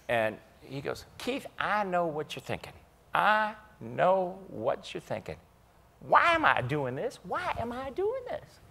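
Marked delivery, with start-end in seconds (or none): 1.2-8.6 Chambers imitation. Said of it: "So there's the Chambers imitation".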